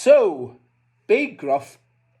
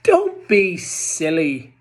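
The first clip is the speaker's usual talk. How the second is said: goat cry; 3 semitones higher, 6 dB louder than usual. Acted. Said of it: "cried Middle Gruff".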